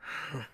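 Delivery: short breathy exhale; short sigh. Acted. Man in the sun mask reacts, short sigh. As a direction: let out one sigh before speaking.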